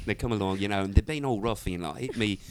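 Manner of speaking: Essex British accent storytelling. Shown as a demonstration. Essex lad telling of rough guys, British accent. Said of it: "'cause I do good British".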